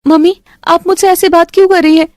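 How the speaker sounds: high, hurt protest; upset daughter. Acted. Isha protesting to her mother, high and hurt. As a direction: push back at mom.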